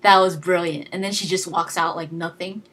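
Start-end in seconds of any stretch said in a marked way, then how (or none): 0.0-0.9 excited praise. Retold or imitated. Delighted reaction quoted.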